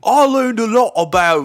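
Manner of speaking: high, loud Aussie parody; Australian accent. Acted. Co-host showing how the tourist should sound, in a loud Australian accent. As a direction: belt out a broad Australian accent. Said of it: "not gonna be able to do the accent".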